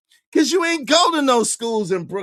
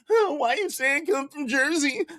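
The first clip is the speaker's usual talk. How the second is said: mock whine; 3 semitones higher than usual. Mocking rival's whiny complaint.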